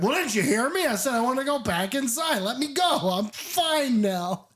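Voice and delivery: put-on indignant childish whine. Blair insists to the crew he wants back inside, petulant childish whine. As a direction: whine like a stubborn kid refused. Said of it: "he's so indignant, and he sounds like a child".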